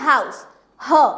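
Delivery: हाउस said slowly, then the ह sound alone; slow pronunciation demo. Shown as a demonstration. Teacher slowly showing students the ह in हाउस. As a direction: draw out हाउस, then isolate ह. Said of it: "इसका pronunciation भी क्या है".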